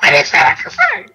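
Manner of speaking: very high squealed disbelief; spazzed out. Retold or imitated. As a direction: imitate yourself losing it with excitement. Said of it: "I kinda spazzed out".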